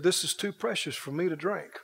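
soft, humbled refusal; quietly moved, as if holding something holy; hushed reverence. Acted. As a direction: drop the voice in reverence. David moved by the costly gift.

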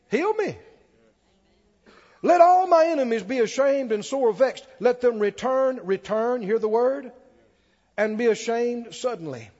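fervent declaimed prayer from scripture; preaching scripture reading. Real, not acted. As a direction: proclaim the verse to the congregation. Reads the psalm out forcefully.

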